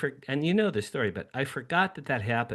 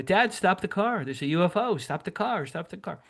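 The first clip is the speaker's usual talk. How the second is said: put-on urgent excited kid; 7 semitones higher than usual. Boy in the car begging his father to stop, urgent and excited. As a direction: re-enact a boy urging Dad to pull over.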